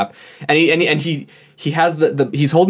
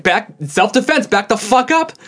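imitated yelling; 8 semitones higher than usual. Employee yelling at a shoplifter to back off, imitated. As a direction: act out his warning yell at held-back volume. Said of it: "he was just yelling".

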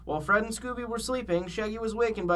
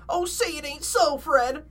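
high-pitched cartoon whine; Shaggy whining; 9 semitones higher, slower than usual. A narrator's reading. Shaggy objects to Fred's plan to stay, high whine. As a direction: plead in a high, whiny voice. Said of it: "whined Shaggy".

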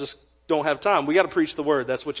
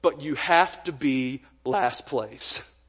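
stern judge; 5 semitones lower, 6 dB quieter, much slower than usual. Retold or imitated. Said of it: "He said".

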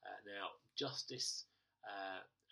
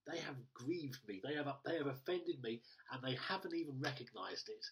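mildly indignant complaint; acted grumpy grievance; 2 semitones higher, 3 dB louder than usual. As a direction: grumble as the offended party, slightly raised. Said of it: "I will be very grumpy".

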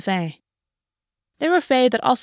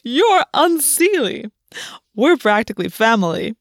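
sly underworld god. Acted. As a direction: tease the captive like a smug god. Kabiri voiced, sly underworld god.

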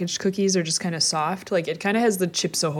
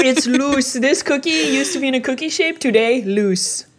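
high playful cookie lament; mock mourn the soggy cookie; playful exclamation; 6 semitones higher, 3 dB louder than usual. Real, not acted. Joking about soggy cookie.

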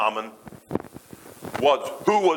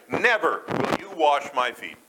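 slow, with "Never" leaned on; emphatic refusal; slower than usual. Retold or imitated. Peter refusing Jesus, slow emphatic Never. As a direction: draw it out, refusing firmly. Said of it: "Peter says quite emphatically".

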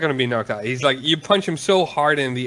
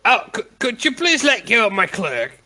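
a bit higher, polite request; lightly voiced Urgard; 8 semitones higher than usual. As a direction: ask politely, a hint of a character voice. Urgard voiced by game master.

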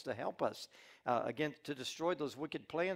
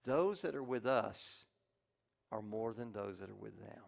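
calm; 4 semitones lower than usual. Acted. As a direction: say it calmly, steady and sure. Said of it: "Elijah very calmly said".

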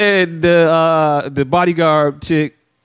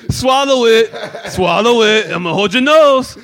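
lightly voiced, insisting, higher; higher coaxing parent voice; 4 semitones higher than usual. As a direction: coax like a pushy nurse. Voicing parent forcing medicine.

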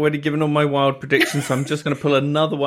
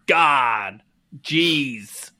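hammed-up relieved American accent. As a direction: relax into a put-on American accent. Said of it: "you have to use your American accent".

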